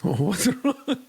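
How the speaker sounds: high, concerned mock question; concerned friend. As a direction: play the worried friend asking what's up. Voicing a concerned friend asking.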